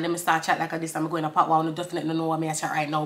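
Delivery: rapid Caribbean patois. Shown as a demonstration. Showing viewers an accent switch, quick Caribbean patois. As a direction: switch into fast patois chat. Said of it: "when I'm talking to you guys like this".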